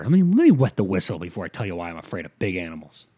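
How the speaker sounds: talking around a sip of water; while sipping a drink. Real, not acted. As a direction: speak while wetting the whistle. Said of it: "let me take a sip of water".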